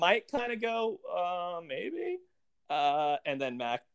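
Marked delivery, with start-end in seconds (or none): 1.1-2.2 much higher, softer unsure maybe; hesitant maybe. Retold or imitated. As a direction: let it float up, doubtful. Imagined hesitant reply.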